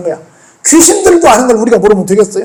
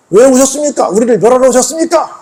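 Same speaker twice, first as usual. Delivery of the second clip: higher-pitched acted objection; mock indignant challenge, raised pitch; defiant protest; 5 semitones higher than usual. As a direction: push back as the threatened spirit. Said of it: "하고 반발합니다".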